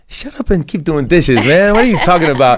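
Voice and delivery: high-pitched mocking retort; dismissive coworkers. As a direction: imitate coworkers brushing off a big dream. Acts out dismissive coworkers' reply.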